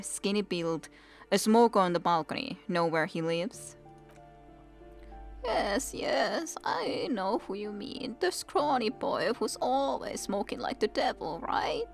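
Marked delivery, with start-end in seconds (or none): 5.4-11.8 put-on old woman voice.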